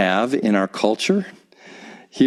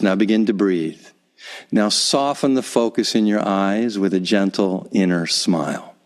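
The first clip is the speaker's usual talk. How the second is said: guided meditation. Acted. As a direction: ease the listener into stillness, gently. Leads a short guided meditation.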